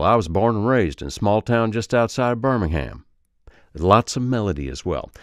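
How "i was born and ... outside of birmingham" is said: relaxed Alabama accent. Shown as a demonstration. Accent coach giving an example of glided words, relaxed Alabama accent. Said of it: "Some words are glided over".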